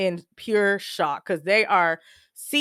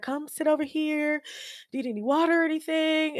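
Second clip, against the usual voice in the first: soft, higher-pitched caring voice; retold gentle coaxing; 7 semitones higher, 5 dB quieter than usual. Hospital lady to shocked daughter, gently coaxing. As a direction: imitate someone gently looking after a shaken relative. Nurse comforts her, retold.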